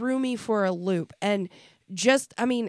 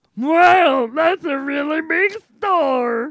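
very loud, high, very slow amazed drawl; 6 semitones higher, 8 dB louder than usual. Imitating a friend looking up at the sky: impression of Jace. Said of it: "That was a good impression of Jace".

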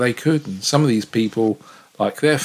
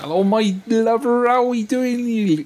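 very high pitched put-on West Country voice; 11 semitones higher than usual. Speaker imitates the canteen staff at work greeting someone; West Country accent. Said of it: "they've all got West Country accents".

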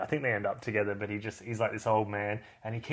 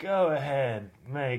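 put-on nonchalant tough-guy voice, higher; 3 semitones higher, 3 dB louder than usual. Quoting a film line as a Clint Eastwood impression. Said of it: "That was my best Clint Eastwood".

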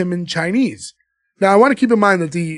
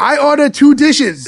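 loud, high, crude, exaggerated stereotyped Chinese accent; 8 semitones higher, 5 dB louder than usual. Retelling a film scene where a man turns to the driver, in a stereotyped Chinese accent. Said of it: "in the accent".

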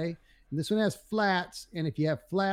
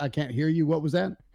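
normal talking voice

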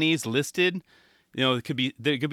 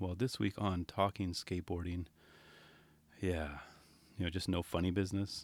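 serious, flat, level monotone with no inflection; 9 semitones lower, 15 dB quieter than usual. Playing a more serious skateboarding show host, in a flat monotone. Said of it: "Probably have talk very monotone".

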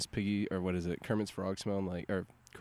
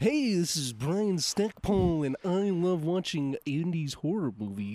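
very slow, high, loud, cartoonish puppet-like voice; 8 semitones higher, 5 dB louder than usual. Showing the others a Brian impression on request. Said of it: "Do you wanna hear my Brian impression?".

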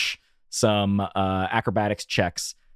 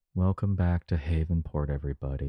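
low, hushed, glum, mopey sad voice; 4 semitones lower, 5 dB quieter than usual. The host welcomes everyone back to the show, sad. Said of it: "are we so sad today?".

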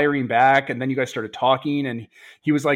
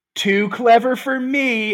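very high, slow speech with laughter through the words; 9 semitones higher, 3 dB louder than usual. Voicing a dying enemy who points where the bullet came from: laughing while talking. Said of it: "laughing, being like".

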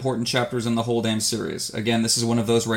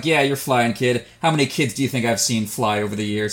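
put-on sarcastic character voice. Speaker recalls Bran saying he's flying, imitating Bloodraven being sarcastic. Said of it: "this sarcastic".

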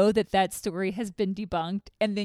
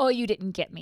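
acted defiant, taunting tone. Retelling how a guest taunted ghosts: imitating a defiant tone. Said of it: "He describes it as defiant".

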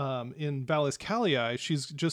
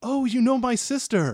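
high, raised, tickled and delighted exclamation; 9 semitones higher, 7 dB louder than usual. Voicing an elf leader who realizes the party knows her sister: amused delight. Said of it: "almost as humorous delight".

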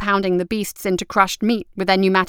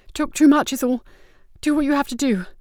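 pained, pitched-up, forced-out words; 6 semitones higher than usual. A spy waves away someone reaching down to her, murmuring in pain. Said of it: "The spy murmured, her face screwing up in pain".

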